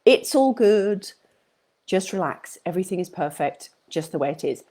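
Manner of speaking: calm reassurance, settling a stressed audience; soothing reassurance. Real, not acted. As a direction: ease them gently off the hook. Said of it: "Let yourself off the hook".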